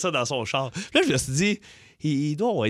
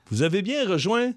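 a hint of a stiff answering-machine voice; Pierre Pagé voicemail. Host mimics colleague's voicemail greeting, lightly mocking announcer tone. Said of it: "on va appeler Pierre Pagé".

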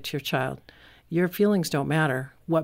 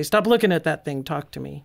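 snapping parent. Retold or imitated. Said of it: "quick to jump on their case and say".

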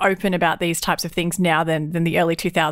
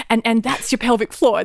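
mock instructor; 3 semitones higher than usual. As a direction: lightly play the earnest teacher. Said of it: "At one point she said".

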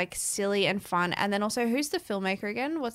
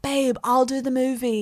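lightly voiced boyfriend, a bit higher; eager boyfriend; 5 semitones higher, 4 dB louder than usual. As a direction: offer it up like a devoted boyfriend. Voices boyfriend stepping up to help.

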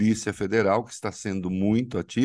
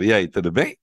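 loud; 3 semitones lower, 5 dB louder than usual. Real, not acted. Calling to guest on bad line.

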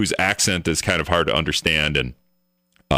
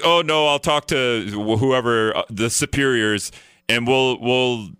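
mock phone rep; 6 semitones higher, slower than usual. Mimicking the rep's excuse.

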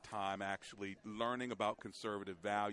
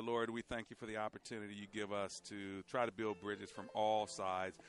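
prayer; 4 dB quieter than usual. Real, not acted. Closing prayer on air.

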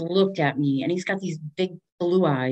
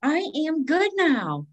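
mock contented; 10 semitones higher than usual. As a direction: savour being tipsy. Mock satisfied after drinking.

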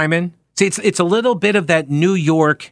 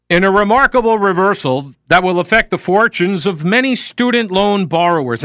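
higher-pitched, stagey news-anchor delivery; put-on newsreader; 5 semitones higher than usual. Reading a script for a resume tape, in a put-on newsreader voice. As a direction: read it like you're trying hard to sound like a news person. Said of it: "this is how I read it".

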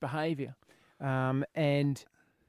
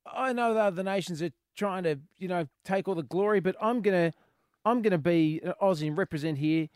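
cocky Aussie; 3 semitones higher than usual. Retold or imitated.

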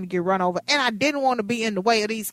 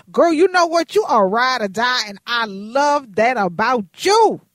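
loud, high praise for a friend; loud hype; 3 semitones higher, 6 dB louder than usual. Real, not acted. Host praising her coworker on air, loud and high. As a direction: hype up your ride or die.

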